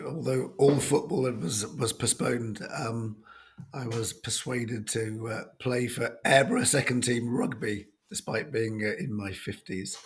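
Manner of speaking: hoarse and croaky, a bit rough; croaky voice from a cold. Real, not acted. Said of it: "apologise for my very croaky voice".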